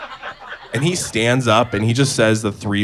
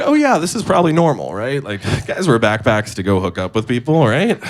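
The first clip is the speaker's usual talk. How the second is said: naive self-reassurance; 2 semitones higher than usual. Retold or imitated. Naive inner voice, convincing himself.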